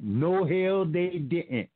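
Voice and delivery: light sassy attitude, punched with emphasis; mild, emphatic hell-no flavour; sassy emphatic retort. Shown as a demonstration. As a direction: toss it off with a bit of street attitude. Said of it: "Put some ghetto in it".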